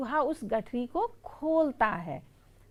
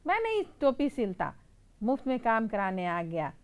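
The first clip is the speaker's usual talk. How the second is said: scolding tailor. Acted. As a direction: shoo the little mouse away. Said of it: "फटकार कर कहता है". (दर्जी की ऊँची फटकार)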